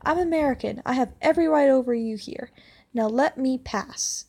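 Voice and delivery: loud, slowed indignant shout; hammed-up outrage, dragging the words; mock shout. Entitled tourist shouting at the narrator in line. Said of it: "and shouts".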